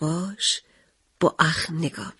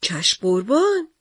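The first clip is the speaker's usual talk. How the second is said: pleading; slower than usual. Acted. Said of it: "با التماس گفتم".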